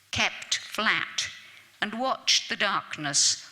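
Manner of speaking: measured, solemn poem recital; poem reading. Acted. Lecturer reading a war poem to the audience, solemn recital. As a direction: let each line of the poem land.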